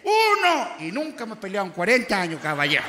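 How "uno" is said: loud, high husband's shout; menacing count. Acted. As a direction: bark the count as a warning to the wife. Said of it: "me dice".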